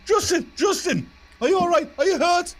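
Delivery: a mock-frantic, very high-pitched cry of concern; worried friend. Tartan rushing to his hurt friend, squeaky high and anxious. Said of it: "goes rushing over to his friend and goes".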